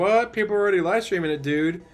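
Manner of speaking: high, loud disbelieving yelp; shocked outburst. Retold or imitated. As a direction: squeal in outraged shock. Mock streamer outrage.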